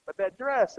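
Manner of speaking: "dress" picked out with emphasis; stress on DRESS. Shown as a demonstration. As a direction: put the weight on the word "dress". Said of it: "so you put the emphasis on the dress".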